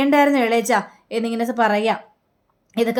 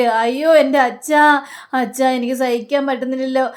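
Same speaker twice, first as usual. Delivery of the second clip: fake wailing. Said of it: "ഒടുക്കത്തെ അഭിനയം".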